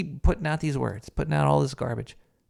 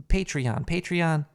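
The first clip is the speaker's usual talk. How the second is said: popping p sounds; 2 semitones higher than usual. Real, not acted. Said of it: "the P's in my plosives are popping on the, the pop filter".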